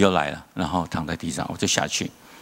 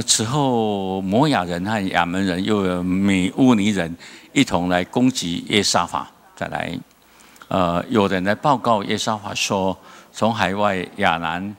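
scripture reading; slower than usual. Acted.

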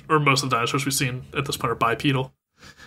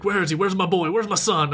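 higher-pitched mock panic; imitated freak-out, pitched up; frantic retelling; 6 semitones higher than usual. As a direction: act out a dad frantically searching. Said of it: "Hart freaking out".

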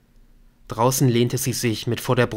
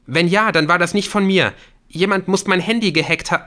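high, agitated, baffled denial; young man protesting innocence; 9 semitones higher, 5 dB louder than usual. Acted. Accused caller defending himself to her, agitated protest. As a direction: plead your case, increasingly worked up.

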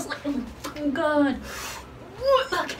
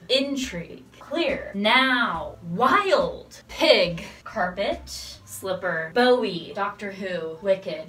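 spoken word; 2 semitones lower than usual. Pretend. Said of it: "spoken word, maybe?".

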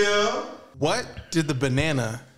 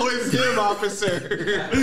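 mock shout; 6 semitones higher, slower than usual. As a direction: yell it like turning him in. Mock calling the cops, shouting.

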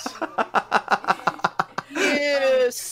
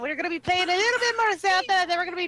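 high-ish put-on posh voice; lightly voiced posh lady; mock posh British; 5 semitones higher, faster than usual. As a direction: play a haughty Brit.

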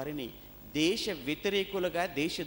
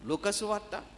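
ordinary talk, nothing marked

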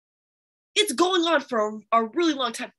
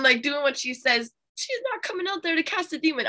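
ordinary talk

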